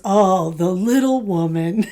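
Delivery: drawn-out, low, patronizing impression; mock chauvinist. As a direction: lightly imitate a sexist sneering at a wife. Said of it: "he goes".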